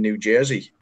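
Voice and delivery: a slight American accent on Jersey; light American pronunciation of New Jersey. Real, not acted. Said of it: "You said that with the accent".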